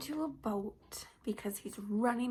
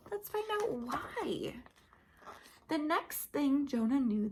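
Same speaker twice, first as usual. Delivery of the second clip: put-on lively, animated storybook voice for little kids; reading to children. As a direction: tell it like a Sunday school story. Reads Bible story to children.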